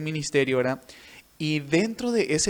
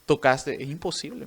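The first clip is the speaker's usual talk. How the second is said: retold indignant disbelief; 2 semitones higher, 5 dB louder than usual. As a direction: imitate an offended teacher refusing to believe it. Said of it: "recuerdo que se fue enojado".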